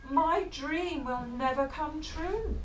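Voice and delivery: slow, sighing lament; mildly sad, slow dream given up; sighing tiger, slow and mild; sighing sadly. Acted. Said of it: "said Max with a sigh".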